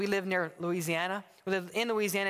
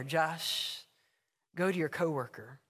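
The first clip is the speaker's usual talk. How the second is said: lower, gentle divine correction; calm voice of God; 4 semitones lower than usual. Acted. God tells Josh to go to his neighbor, calm and lower. Acted dialogue, God answering.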